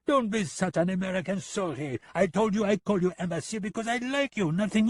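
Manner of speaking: high, mocking sing-song; smug gunman needling the American; teasing Lipov. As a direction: rub it in with fake friendliness. Lipov's character voice.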